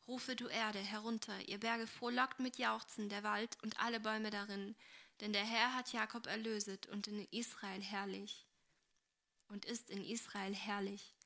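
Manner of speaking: measured, solemn scripture reading; Bible reading. Acted. Agnes reading favourite verses to Esther, solemn. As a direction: read the verses reverently, a little subdued.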